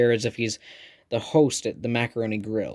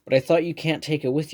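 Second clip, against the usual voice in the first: put-on lightly done British accent, pitched higher; a schoolboy's best British accent, a bit raised; a playful put-on British accent; 5 semitones higher than usual. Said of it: "In my very best British".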